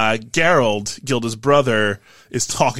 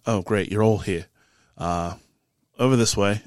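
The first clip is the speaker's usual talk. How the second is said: low, subdued character voice; Mazur the innkeeper; 3 semitones lower, 4 dB quieter than usual. Acted. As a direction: quietly usher the party aside. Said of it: "He falls quiet for a moment".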